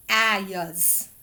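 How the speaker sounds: "ayas" blended as the wrong reading. Shown as a demonstration. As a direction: say "ayas" as the mistaken sound-out. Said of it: "That is not this word".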